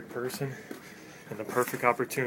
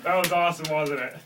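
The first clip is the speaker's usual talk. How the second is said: excited; 5 semitones higher, 7 dB louder than usual. Real, not acted. Excited after prank.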